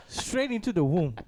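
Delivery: said through laughter; laughing. Real, not acted. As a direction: laugh while saying it.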